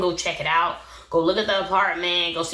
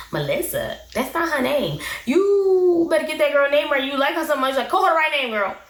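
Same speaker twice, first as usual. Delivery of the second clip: sassy scold; 7 semitones higher than usual. Real, not acted. Vlogger sassily scolding friend for the wrong name. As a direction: tell her off, half laughing. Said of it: "scolding the friend on camera".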